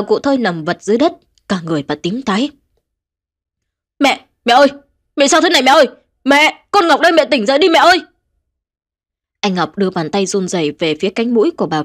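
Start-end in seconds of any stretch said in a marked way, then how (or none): 4.0-8.0 higher, louder, fast anguished cries for mother; wailing in grief. Acted. Son finds his mother dead on the floor, wailing. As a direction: howl it out, begging her to wake. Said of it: "Cứ thế anh gào lên trong đau đớn".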